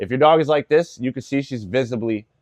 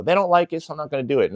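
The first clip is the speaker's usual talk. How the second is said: mock indulgent owner; 6 semitones higher, faster than usual. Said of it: "don't cater to them and go".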